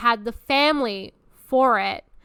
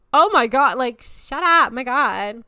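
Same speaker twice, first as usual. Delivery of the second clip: mock exasperation; 2 semitones higher, 8 dB louder than usual. Woman answering a guy spooked by love, mock exasperation. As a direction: cut him off in hammed-up annoyance. Retort to the panicking guys.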